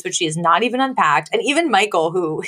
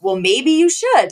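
mock defiant husband; 5 semitones higher than usual. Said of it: "he's like".

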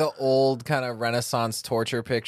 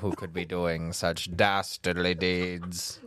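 serial killer voice; 2 semitones lower than usual. Pretend. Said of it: "my serial killer voice".

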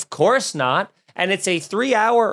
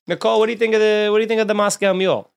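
mock host voice; 5 semitones higher, much faster than usual. Hosty put-on voice asking cohost.

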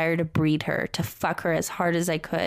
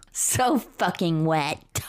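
slow breathy mock-sexy whisper; sultry whisper; much slower than usual. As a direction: whisper it out slowly. Rereading line in mock whisper.

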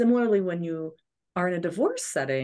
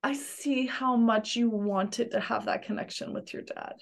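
soft, higher, gentle comfort; tender validation; 3 semitones higher, 4 dB quieter than usual. Retold or imitated. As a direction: soothe the hurt child. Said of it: "you're crying with them".

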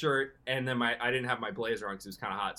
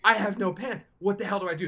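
higher, louder frantic pleading; retold panic; 8 semitones higher, 6 dB louder than usual. Alone in the hotel without pants, frantic. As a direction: play up the panic of the moment.

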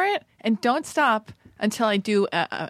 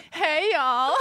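higher, put-on Southern greeting; Southern accent; 4 semitones higher than usual. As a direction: greet listeners in a playful Southern twang. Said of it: "do the new Southern version of you".

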